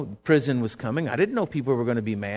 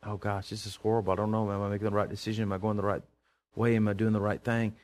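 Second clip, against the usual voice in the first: worried muttering; 5 semitones lower, 6 dB quieter than usual. Retold or imitated. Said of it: "I was just like".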